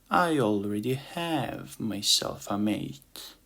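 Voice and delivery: slow, seductive foreign purr. Acted. Ladybug tells the ant she has a mate, slow and seductive. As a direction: tease him with it, slowly. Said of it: "she said in a seductive tone".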